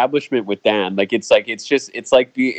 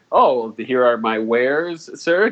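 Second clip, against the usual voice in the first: mock formal shopper; slower than usual. Mocking how Dan talks to the cashier, slow faux-formal. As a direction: hand over the cash like a stiff olde-world customer. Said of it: "you can't just go and be like".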